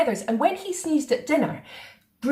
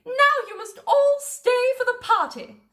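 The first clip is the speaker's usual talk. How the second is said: high, bright invitation with a laugh; laughing Queen; 13 semitones higher than usual. A narrator's reading. Queen inviting all to her party, laughing. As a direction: invite everyone gladly.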